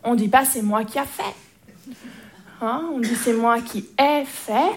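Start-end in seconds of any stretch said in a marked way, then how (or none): 0.0-1.9 slow, measured gentle telling-off; gentle correction. Retold or imitated. Aunt correcting her little nephew's grammar, gently. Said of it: "je dis gentiment". 3.2-4.7 "ai fait" drawn out slowly; slow modelled correction. Retold or imitated. Aunt showing her nephew the correct form, slow and deliberate.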